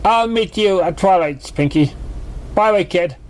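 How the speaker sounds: high, showy mare voice, musing; a performer already planning her act; Trixie. Acted. Trixie thanks Pinkie and muses on the potion, high and showy.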